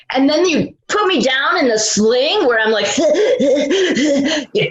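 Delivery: laughing while telling it. Real, not acted. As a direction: chuckle through the words. Laughing at the memory.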